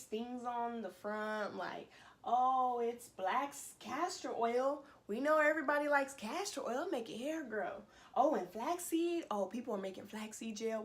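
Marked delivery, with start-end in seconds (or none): 2.2-10.8 breezy sales pitch, mocking the brand; mock marketer. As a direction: play the company cashing in on trends. Mocks the brand's marketing reasoning.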